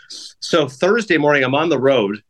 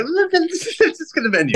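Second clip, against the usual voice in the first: mock pleading; 14 semitones higher than usual. Pleading for dessert, retold.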